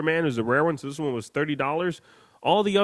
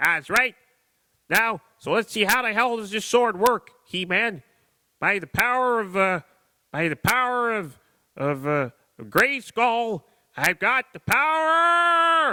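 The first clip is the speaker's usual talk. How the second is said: high, swooping, sing-song cartoon voice, "power" drawn out; 8 semitones higher than usual. Playing with a toy and voicing it as Master Shake: Master Shake voice. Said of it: "It's me, Master Shake".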